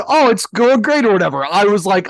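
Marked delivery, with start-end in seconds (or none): 0.1-1.0 raised, louder mimicry of his reply; mock quote of an upbeat answer; imitating a co-host's answer. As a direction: play back his line, pitched up. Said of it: "the way you said".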